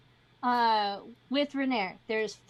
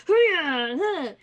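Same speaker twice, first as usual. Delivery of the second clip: effort grunts; 5 dB louder than usual. Acted. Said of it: "is like".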